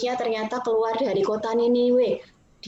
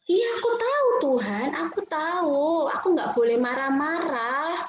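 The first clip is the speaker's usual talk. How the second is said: grudging admission; 3 semitones higher than usual. Acted. Scolded Yunus answers God grudgingly.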